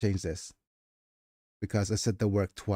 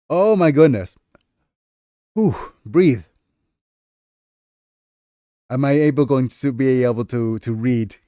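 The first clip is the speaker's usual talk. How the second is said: louder breathless exclaiming after laughter; real giggly recovery; 3 semitones higher, 9 dB louder than usual. Real, not acted. Streamer trying to compose herself to keep reading, breathless and giggly. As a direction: catch your breath after a fit of giggles.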